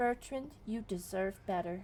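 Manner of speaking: slow, consoling creature voice, laid on thick. Voicing Fufu, who puts a tentacle on Bertrand's shoulder: Fufu's voice. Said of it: "puts a tentacle on your shoulder and goes".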